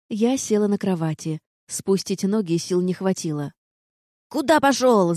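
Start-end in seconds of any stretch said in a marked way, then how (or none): 4.3-5.1 loud, high indignant yell at the intruder; yelling gargoyle. Acted. Gargoyle yells at Vard barging into barracks, loud indignant yell. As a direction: bellow it like an outraged stone warden. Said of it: "завопила горгулья".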